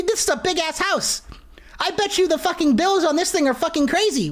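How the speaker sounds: a touch of high, indignant ranting; mock outrage. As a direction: rant like an offended homeowner. Yelling at the intruding monster.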